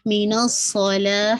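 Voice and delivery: من الصلاۃ slow with a heavy ص; slow tajweed recitation; heavy sad. Shown as a demonstration. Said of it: "تاکہ کسرہ sharp رکھے گا".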